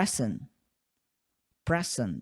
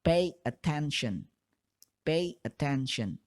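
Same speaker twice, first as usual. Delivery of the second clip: slow, separated. Shown as a demonstration. Teacher demonstrates the separated form. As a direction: pay attention said slowly with a gap between pay and attention. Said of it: "diucapkannya lambat atau secara terpisah".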